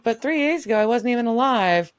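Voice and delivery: lightly mocked girlish protest; imitated teenage girl. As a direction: raise the pitch for the girl. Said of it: "she's a teenage girl".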